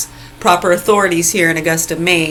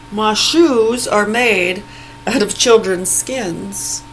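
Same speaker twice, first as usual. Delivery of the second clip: mock comic; 3 semitones higher, much slower than usual. Mocking a comedian's joke.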